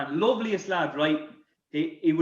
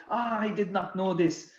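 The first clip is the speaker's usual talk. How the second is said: put-on French accent; 2 semitones higher than usual. French teammate refuses tomorrow's match over the bill, distressed French accent. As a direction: imitate a French footballer fretting, cracking up at the end. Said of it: "this bill with his French accent".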